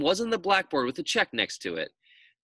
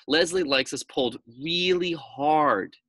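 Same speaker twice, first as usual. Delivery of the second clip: sly pigtail; 4 semitones higher, slower than usual. Acted. Pigtail persuading Paul.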